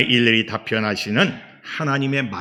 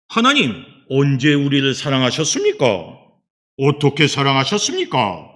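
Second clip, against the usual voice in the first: louder, challenging retort in a people's voice; indignant protest; 6 dB louder than usual. Retold or imitated. Israelites answering back to God's declaration of love, indignant protest. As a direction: act out the protest, pressing the question. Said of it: "이렇게 항변을 해요".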